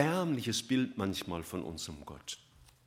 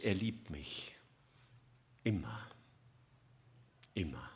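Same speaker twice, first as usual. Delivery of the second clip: whispered; 7 semitones lower, 8 dB quieter than usual. Real, not acted. Preacher whispering God's constant love to listeners. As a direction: breathe it as a secret comfort.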